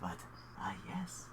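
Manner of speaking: halting, sheepish character voice; apologetic flustered host. Acted. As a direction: fumble through an apology, trailing away. Game master voices the apologetic host.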